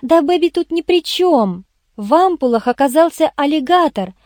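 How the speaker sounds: lightly voiced eager explainer; lightly voiced Irene. Irene reports her finds to the boss, lightly feminine.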